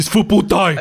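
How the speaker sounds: high-pitched, announced delivery. Quoting a film clip of someone walking into a pub: imitating Charlie Hunnam. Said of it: "Charlie Hunnam's walking into a pub and he just goes".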